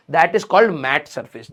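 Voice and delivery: slow, drawn out dictation; slow because of a sore throat; speaking slowly. Shown as a demonstration. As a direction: take it word by word. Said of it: "मैं धीरे धीरे इसलिए बोल रहा हूं".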